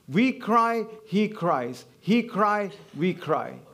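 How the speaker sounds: WE cry, HE cries, pronouns leaned on; stress on pronouns. Shown as a demonstration. Preacher showing harmony of human and divine, stressed pronouns. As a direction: swing the weight between "We" and "he". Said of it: "harmony between the human and the divine".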